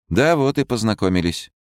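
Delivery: playful, sly nurse. Acted. Nurse replies.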